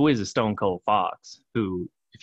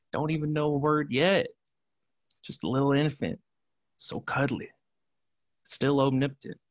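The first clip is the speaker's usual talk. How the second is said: put-on higher, gently cooing over a baby; cooing tenderness; 5 semitones higher than usual. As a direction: coo it like praise for a cuddly newborn. Cooing over the infant Jesus in prayer.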